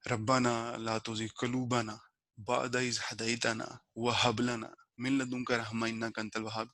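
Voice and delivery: slow, measured Arabic prayer recitation; Quran recitation. Real, not acted. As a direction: recite the dua slowly, phrase by phrase.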